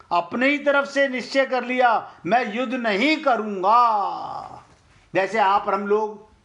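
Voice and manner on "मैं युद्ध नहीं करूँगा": खींचकर इनकार. Retold or imitated. Arjun का हठी इनकार दोहराना.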